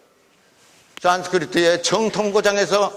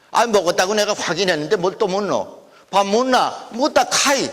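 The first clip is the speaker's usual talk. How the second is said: Gyeongsang dialect. Shown as a demonstration. Lecturer acting out someone confirming they ate, Gyeongsang dialect. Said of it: "경상도 토속 사투리".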